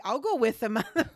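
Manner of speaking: teasing giggly volunteer line; laughing while quoting friend. Retold or imitated. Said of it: "my one other friend was like".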